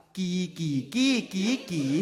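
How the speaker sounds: ki sung through five different Thai tones; ki, ki, ki, ki, ki each on its own tone pitch. Shown as a demonstration. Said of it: "but we have five tones".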